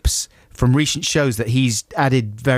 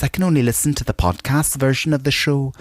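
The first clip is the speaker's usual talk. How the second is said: mock Mark Cousins voice; 3 semitones higher than usual. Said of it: "No, I'm not gonna do an accent".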